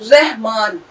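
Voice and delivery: رحمان with a doubled r, as in ar-rahman. Shown as a demonstration. Teacher showing students the doubled r sound. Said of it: "رے کی دو آواز نکلی".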